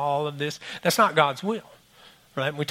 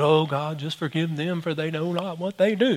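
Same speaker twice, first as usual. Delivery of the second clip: softer, overly pious plea; mock holy prayer; 5 dB quieter than usual. Pastor praying to God, falsely saintly and soft. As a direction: sound saintly on purpose. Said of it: "trying to be all holy".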